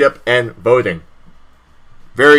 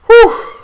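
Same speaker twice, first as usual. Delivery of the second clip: exhale; 4 dB louder than usual. Real, not acted. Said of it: "I got a little emotional".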